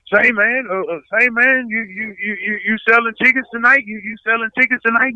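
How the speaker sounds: mock pushy promoter. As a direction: badger him about tickets. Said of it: "he come running up on me".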